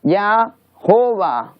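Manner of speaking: "Yahovah" in slow, separated parts, "ya... HO-va"; "Yahovah" as said in English, drawn out; English-style name. Shown as a demonstration. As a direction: sound out "Yahovah" slowly with a breathed h. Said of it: "Por eso en inglés se dice".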